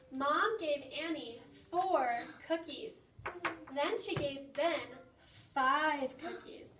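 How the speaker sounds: slow, deliberate word-problem reading; slow school dictation. Acted. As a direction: read each number out slowly for children. Teacher reads the word problem.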